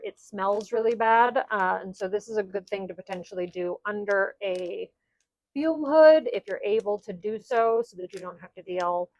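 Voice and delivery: muffled through a face mask. Real, not acted. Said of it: "I'm wearing a mask right now".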